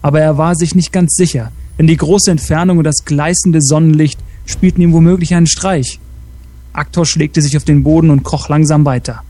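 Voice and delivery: measured storyteller's reading; story narration. Acted. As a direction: narrate an adventure tale with deliberate phrasing. Reads a story aloud.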